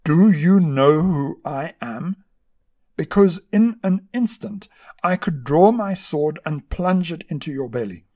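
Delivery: loud, slow, furious bark at the monk; barked threat. A narrator's reading. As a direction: bark it down at him like a vexed general. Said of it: "this vexed general barked".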